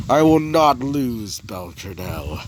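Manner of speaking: restrained, drawn-out defiance; acted defiant vow. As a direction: declare it grimly, then let the name sink. Villain's vow before the scream.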